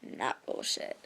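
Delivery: whispered. Retold or imitated. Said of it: "And now I'm like".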